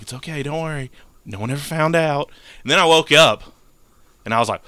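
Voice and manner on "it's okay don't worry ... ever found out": acted soothing. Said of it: "I'm, like, hugging him and shit".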